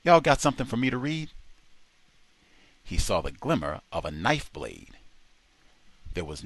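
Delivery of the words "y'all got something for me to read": brazen. A narrator's reading. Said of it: "trying to brazen things out".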